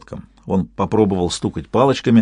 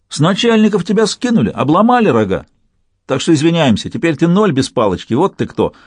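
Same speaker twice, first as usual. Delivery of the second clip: much higher, louder furious rant; angry rant; 6 semitones higher, 3 dB louder than usual. A narrator's reading. Matroshilov raging at the demoted father, much higher. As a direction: rage at the fallen boss.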